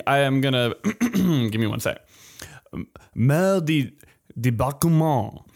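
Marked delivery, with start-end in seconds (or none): 3.1-5.4 French pronunciation. Shown as a demonstration. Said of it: "You trying to speak French again?".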